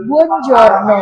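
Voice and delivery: slow emphatic Italian buongiorno; firm Italian greeting. Shown as a demonstration. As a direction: say buongiorno firmly, Italian style. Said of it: "Ini agak tegas ya". (buongiorno diucapkan tegas ala Itali)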